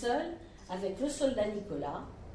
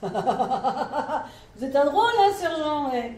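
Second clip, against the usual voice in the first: rire amer; 5 dB louder, much slower than usual. Acted. Soldat rit, mécontent.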